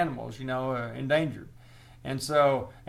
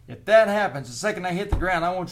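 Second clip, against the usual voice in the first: louder and higher, driving to the punchline; loud punchline buildup; 6 semitones higher, 7 dB louder than usual. Retold or imitated. Bear remover telling the homeowner his role, loud and pushy. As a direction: lean hard into the setup.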